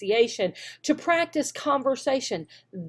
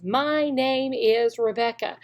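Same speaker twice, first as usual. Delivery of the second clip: slow model sentence; slower than usual. Shown as a demonstration. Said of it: "I want the complete sentence".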